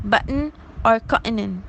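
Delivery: "button" and "continent" with a glottal stop for T. Shown as a demonstration. Lecturer giving examples of the glottal stop, glottalled T. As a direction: catch the T in the throat in "button" and "continent". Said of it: "glottal stop substitute the deaspirated t".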